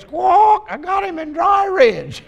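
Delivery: very high parrot voice with a squawk. Retold or imitated. The parrot sasses the stranger about its owner, in a shrill squawk. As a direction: screech it like a cheeky parrot.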